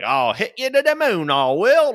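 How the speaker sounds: high, absurdly exaggerated British accent; caricatured British accent. Drunk American aping UK friends, caricatured British accent. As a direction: ham up a terrible British accent, pitched high. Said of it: "a characterized version of".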